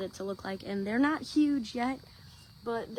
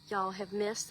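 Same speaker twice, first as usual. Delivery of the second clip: ordinary talk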